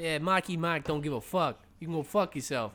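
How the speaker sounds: barely changed voice, a hint of tough-guy swagger; Mark Wahlberg impression. Shown as a demonstration. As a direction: toss it off like a cocky Boston movie star, own voice. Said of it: "That's my impression of Mark Wahlberg".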